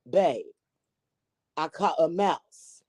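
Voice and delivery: put-on slow, tentative Australian accent; amateur Australian impression. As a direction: try out an Australian husband's voice. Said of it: "Is that Australian?".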